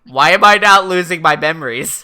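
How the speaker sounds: loud, baffled cry; mock alarm. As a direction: blurt it out in hammed-up dismay. Light's plan fails, he panics.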